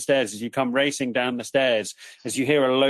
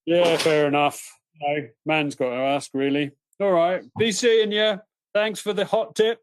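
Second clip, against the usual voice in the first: dingo voice; 4 semitones higher than usual. Acted. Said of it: "and is like".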